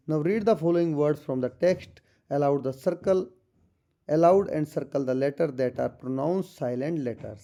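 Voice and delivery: slow, deliberate reading of the English passage; textbook read-aloud. Acted. Teacher reading the textbook to students, slow and careful. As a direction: read it out word by word for the class.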